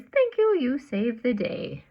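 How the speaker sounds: very high, loud thanks trailing back down; voicing the grateful bird. Grateful bird thanks the bear for the nest, high loud voice. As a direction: burst out thanks up high, then settle. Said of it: "And Bird says".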